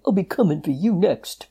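a gruff promise of revenge; wolf voice. A narrator's reading. Wolf threatens the animals.

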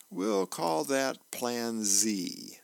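dry punchline. Acted. Wife's punchline while massaging his back.

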